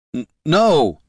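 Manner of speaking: high panicked stammer; frightened stammer. A narrator's reading. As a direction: stammer it out in fear. Jin panics.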